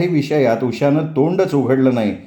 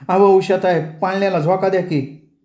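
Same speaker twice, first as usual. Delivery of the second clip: calling out; 6 semitones higher than usual. Acted. Calling from bathhouse.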